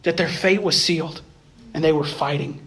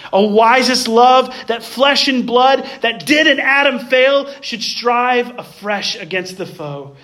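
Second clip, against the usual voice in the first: poem reading; slower than usual. Acted. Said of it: "words of poetry from J H Newman".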